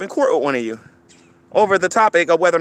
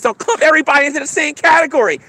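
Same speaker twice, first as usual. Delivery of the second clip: mocking quote; 8 semitones higher than usual. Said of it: "Don't give me this".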